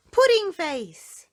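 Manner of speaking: slow, high, loud jeer; taunting name-call. Acted. Mister Small to Mister Tickle, a slow high jeer. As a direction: drag out the insult slyly. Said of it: "he said".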